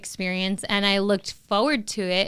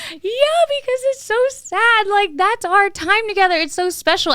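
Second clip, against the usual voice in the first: retold crying; 11 semitones higher, 4 dB louder than usual. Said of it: "and I was crying".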